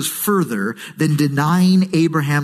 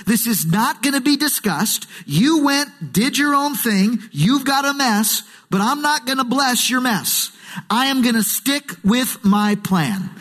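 God laying down the law, lightly acted; firm, final, no room for argument; emphatic refusal; 3 semitones higher than usual. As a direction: state each point emphatically as a verdict. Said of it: "God says emphatically".

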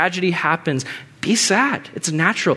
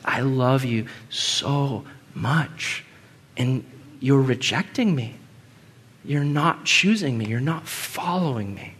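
tender plea; 4 dB quieter than usual. Pretend. God voiced pleading with sinner.

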